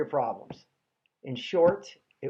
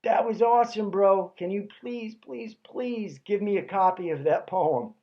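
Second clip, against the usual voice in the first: imitating an eager fan, slightly raised pitch; lightly played bubbly enthusiasm; 3 semitones higher than usual. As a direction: plead excitedly, like a gushing bro. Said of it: "surprisingly bubbly and says".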